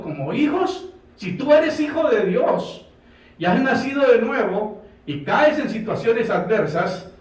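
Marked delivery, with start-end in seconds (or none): 1.1-5.7 preaching. Acted. Preacher urges his congregation.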